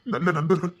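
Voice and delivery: emotional, halting confession; choked-up gratitude; tearful. Acted. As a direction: speak through held-back tears, pausing between phrases. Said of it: "என்னடா நீ அழுதுகிட்டு இருக்க".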